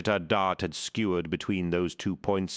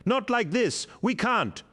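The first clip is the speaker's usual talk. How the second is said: high, loud anguished bellow; 4 dB louder than usual. A narrator's reading. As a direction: refuse to leave, full voice. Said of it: "bellowed the War Master".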